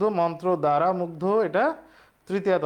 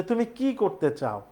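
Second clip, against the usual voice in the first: slow, stressed তুমি in "তুমি কি করতে চাও?"; teacher reading "তুমি কি করতে চাও?" as a model question; 4 semitones higher, slower than usual. Shown as a demonstration. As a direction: read the question slowly, leaning on তুমি. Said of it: "এর উত্তর কি হ্যাঁ বা না দিয়ে হয়?".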